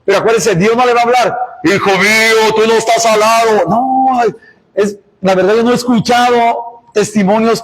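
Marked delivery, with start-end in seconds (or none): 1.6-3.6 lightly voiced, solemn voice from heaven; voice of God. Preacher mimics God speaking aloud to a son, lightly put-on divine voice. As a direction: imitate God's voice, drawing out the words. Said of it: "escucharan así una voz así".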